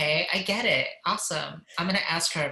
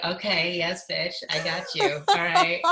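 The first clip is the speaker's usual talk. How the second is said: laughing; 2 semitones higher, 4 dB louder than usual. Retold or imitated. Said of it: "I was like".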